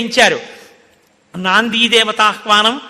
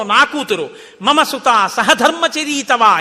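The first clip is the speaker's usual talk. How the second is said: joyful father; slower than usual. Retold or imitated. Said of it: "ఎంత సంతోషమో".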